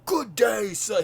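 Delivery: high, loud British dismissal; boisterous Parliament speaker. Retold or imitated. Streamer imitating the speaker who made someone leave, boisterous British shout. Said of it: "boisterous with his accent".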